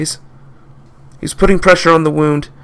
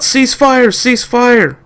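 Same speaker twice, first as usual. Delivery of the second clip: yelled order; 9 semitones higher, much slower than usual. Acted. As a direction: bark the order to stop shooting. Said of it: "The head guard yelled out".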